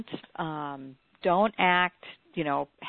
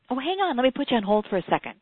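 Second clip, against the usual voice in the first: high, louder breezy brush-off; mimicking the guest; 6 semitones higher, 5 dB louder, faster than usual. Guest brushing off the interviewer, higher and louder. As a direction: toss it off casually like a busy star. Famous guest puts her on hold.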